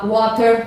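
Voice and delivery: WATER with a clear British T; British pronunciation. Shown as a demonstration. Teacher introduces the drink, British T in WATER. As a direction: say "Water" the British way, T fully sounded. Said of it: "é a pronúncia britânica".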